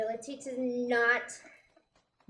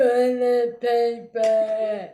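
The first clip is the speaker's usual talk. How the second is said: slow, loud zombie moan; zombie groan; 10 dB louder, much slower than usual. Retold or imitated. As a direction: drag it out like a shambling zombie. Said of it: "being like".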